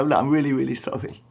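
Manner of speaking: a lighter echo of the sorry; apologising. Retold or imitated. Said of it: "he really apologised".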